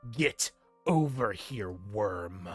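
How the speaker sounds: loud brutish orc voice; dopey cartoon bellow. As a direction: bark it like a hulking orc. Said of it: "the orc says".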